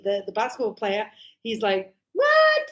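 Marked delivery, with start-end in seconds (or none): 2.1-2.6 high, startled what; baffled what. Retold or imitated. A basketball player baffled by his agent, with a high startled what. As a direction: snap up in surprise.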